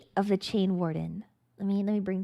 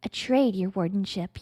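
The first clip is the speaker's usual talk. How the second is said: stuttering. Acted. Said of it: "you stutter".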